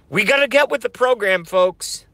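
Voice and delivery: fast fired-up rally. Acted. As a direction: rattle it off, revved up. Repeated rallying cry.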